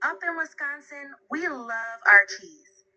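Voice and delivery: folksy Wisconsin accent. Shown as a demonstration. Assistant praising local cheese and pizza in a Wisconsin accent. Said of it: "How about a Wisconsin accent?".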